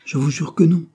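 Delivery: high, loud protest; cri de protestation aigu et fort; crying out. A narrator's reading. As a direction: swear it, almost shouting. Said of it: "s'écria Armand".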